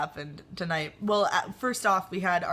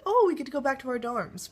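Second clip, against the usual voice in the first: bright, higher and louder hopeful quote; relieved excitement; 7 semitones higher, 4 dB louder than usual. Retold or imitated. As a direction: sound thrilled to be done for the day. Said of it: "we were like".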